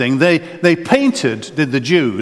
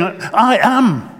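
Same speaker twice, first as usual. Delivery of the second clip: "I am" pitched up and weighty; emphatic; 5 semitones higher than usual. Retold or imitated. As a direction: declare "I am" with strong emphasis on both words. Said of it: "it's called the emphatic".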